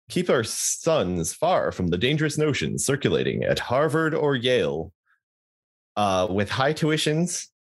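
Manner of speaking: put-on American accent, swooping tune. Shown as a demonstration. Rereading the Southern college line to co-host, in American accent. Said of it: "I'll do my American accent".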